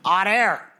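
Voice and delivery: mock Yinzer twang from Pittsburgh; Pittsburgh Yinzer accent. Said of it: "a real fucking Yinzer".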